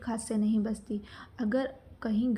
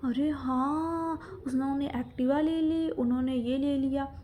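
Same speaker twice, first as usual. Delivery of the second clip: जलन की नकल; 3 semitones higher than usual. Retold or imitated. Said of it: "इसको तो तभी भी मिर्ची लग गई थी". (मिर्ची लगने वाली जलन की नकल)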